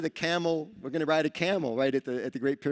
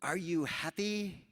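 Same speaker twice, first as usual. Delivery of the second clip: camel steward voice; 4 semitones higher, slower than usual. Retold or imitated. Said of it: "he goes".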